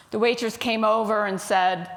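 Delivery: ordinary delivery, nothing marked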